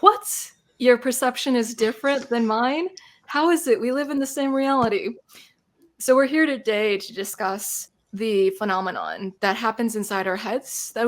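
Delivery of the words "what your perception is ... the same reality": high-pitched, incredulous questioning; mock disbelief. People baffled by each other's perception, imitated astonishment. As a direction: imitate people stunned by a differing view. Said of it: "made people be like".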